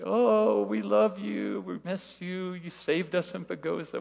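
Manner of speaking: high, drawn-out farewell, fading in volume; hammed-up crying-style send-off; mock tearful gushing. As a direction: imitate a weepy, fawning goodbye. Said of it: "Everybody starts crying".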